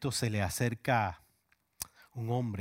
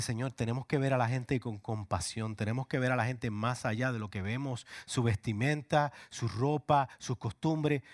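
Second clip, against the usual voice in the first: impassioned prayer. Retold or imitated. Pastor's retold prayer, building.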